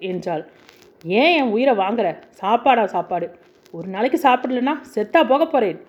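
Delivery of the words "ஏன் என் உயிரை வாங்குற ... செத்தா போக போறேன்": raised, angry yell at his wife; angry shout. Acted. Husband yelling at his frightened wife, angry shout. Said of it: "என்று கத்தியவனை".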